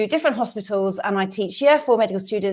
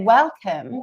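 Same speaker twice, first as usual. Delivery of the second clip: English accent. Shown as a demonstration. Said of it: "No, say".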